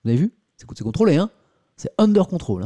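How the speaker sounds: jokey "it's all under control" bluster; mock self-assured. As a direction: play it cool, joking about your own slip. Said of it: "tout est sous contrôle".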